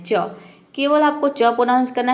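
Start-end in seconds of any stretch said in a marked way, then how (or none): 0.0-0.3 a lone crisp च, said by itself; clear च sound. Shown as a demonstration. Teacher drills students on the single च sound. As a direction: say च on its own, clean and short. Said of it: "च pronounce करना है".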